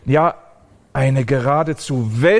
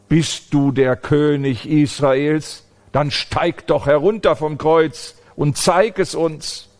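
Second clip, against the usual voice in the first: slightly higher scornful jeer; mocking taunt; 4 semitones higher than usual. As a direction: taunt him like a scoffer at the cross. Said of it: "so viel wie schmähen".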